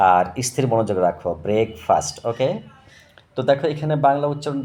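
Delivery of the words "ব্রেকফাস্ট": ব্রেকফাস্ট said clearly, each sound distinct for the class; teacher modelling ব্রেকফাস্ট carefully; careful model pronunciation. Shown as a demonstration. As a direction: model ব্রেকফাস্ট slowly and cleanly for pupils. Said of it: "ভালো করে শোনো কিন্তু".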